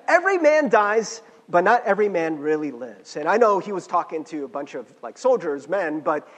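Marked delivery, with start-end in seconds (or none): 0.1-3.1 emphatic restated quote. Acted. Preacher repeating the movie quote after apologising for his accent, loud and emphatic. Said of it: "I'm really bad at accents, sorry".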